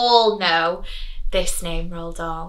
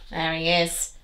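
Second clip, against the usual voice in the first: aside whisper; 6 semitones lower, 10 dB quieter than usual. Real, not acted. Teacher confiding to pupils about the disguised wolf, whispered. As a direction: lean in and whisper the secret. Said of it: "teacher aside to the children".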